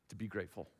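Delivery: preacher hushes "to be grateful" before repeating it; soft and low. Acted. Repeated phrase, softer first take.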